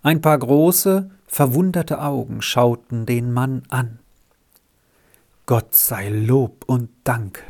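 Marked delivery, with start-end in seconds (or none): 5.5-7.4 a rescuer's grateful sigh; deeply relieved. Acted. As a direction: breathe out the thanks with relief. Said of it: "sagte Martin tief aufatmend".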